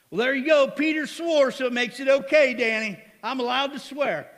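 loud, high mock gloating over the excuse; pretending swearing is now allowed, mock shout; mock triumphant shout. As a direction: shout it like you've found a loophole. Mocking a congregant's excuse.

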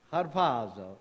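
low, lightly hammed-up Italian accent; mock Italian accent. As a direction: say it like a joke Italian. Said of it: "say it with an Italian accent".

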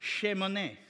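"Shemone" sounded out slowly syllable by syllable; Hebrew pronunciation. Shown as a demonstration. Preacher teaching the congregation a Hebrew word, careful pronunciation. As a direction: pronounce "Shemone" carefully with an SH at the start. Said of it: "So that word is pronounced".

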